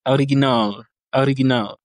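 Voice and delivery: original in Russian, first O read as A; Russian pronunciation. Shown as a demonstration. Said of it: "l'accentuation est sur le A".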